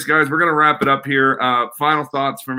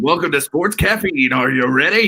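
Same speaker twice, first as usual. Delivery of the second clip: mock show-host intro; 3 semitones higher than usual. Guest playfully previewing his hosting of Sports Caffeine, mock announcer. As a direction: overdo a morning-show welcome. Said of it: "Don't do it like that".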